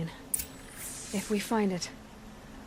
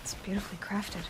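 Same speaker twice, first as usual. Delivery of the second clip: whispered wonder; admiring whisper; 5 dB quieter than usual. Acted. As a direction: breathe it out in awe. Admiring a strange device.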